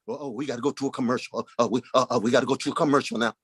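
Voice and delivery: a host scrambling to escape; flustered TV host. Retold or imitated. Talk show host rushing to break from Malcolm, flustered.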